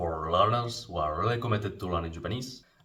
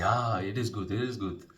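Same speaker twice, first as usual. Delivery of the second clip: agreeing warmly; 2 semitones higher than usual. Shown as a demonstration. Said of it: "you can say".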